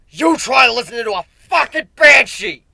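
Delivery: loud, high, angry bark. Acted. Aoi snapping back at the griffin mid-fight, loud bark. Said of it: "he barked".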